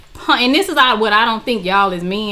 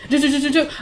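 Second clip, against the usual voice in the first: quick "duh" syllables mimicking typing; imitated keyboard clicking; 3 semitones higher, 3 dB quieter, much faster than usual. Friend searching records on the keyboard, imitated clicking. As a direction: tap out typing with the voice. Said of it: "I just hear clicking on the keyboard".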